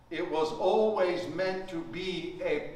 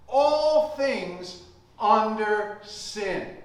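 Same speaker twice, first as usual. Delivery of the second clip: slow, deliberate verse with long pauses; emphatic scripture reading. Acted. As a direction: recite the verse phrase by phrase. Reads verse to congregation.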